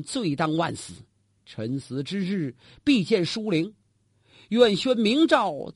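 slow, hushed plea, swallowing the grief; holding back sobs. Acted. Prince begs the emperor before his death, suppressing sobs. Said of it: "强压悲声".

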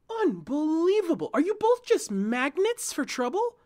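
angry shout. A narrator's reading. Talia explodes in frustration.

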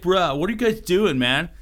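a dude from California, hammed up; mock California bro asking what's going on; California surfer accent. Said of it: "he has a California accent".

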